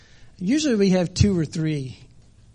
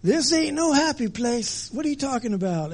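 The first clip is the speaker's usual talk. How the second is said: hammed-up cartoon bear yelling; 9 semitones higher than usual. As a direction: shout it like a bear chased by hornets. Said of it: "you can hear Brer Bear yelling".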